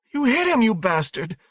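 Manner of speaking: very high, loud furious scream; outraged cry. A narrator's reading. Mother screaming at husband who struck their son, outraged. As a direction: cry out in fury, pitch leaping up. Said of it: "Wendy cried".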